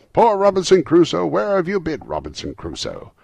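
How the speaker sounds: very high, loud parrot call; parrot imitation. A narrator's reading. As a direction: squawk it out like the parrot. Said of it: "He was the parrot".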